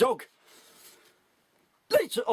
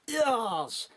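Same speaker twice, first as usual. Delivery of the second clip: slow, sneering villain voice; villain sneering his confession; sneering German villain; 4 semitones higher, slower than usual. Acted. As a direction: gloat slowly like a film villain. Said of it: "sneered the Germ".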